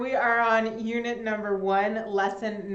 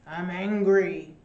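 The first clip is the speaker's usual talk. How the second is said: mock angry; 3 semitones lower, 6 dB louder than usual. Shown as a demonstration.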